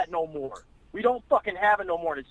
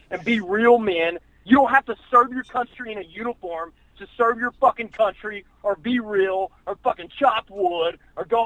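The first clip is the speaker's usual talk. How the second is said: preachy rant. Retold or imitated. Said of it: "That's why I tell everybody now".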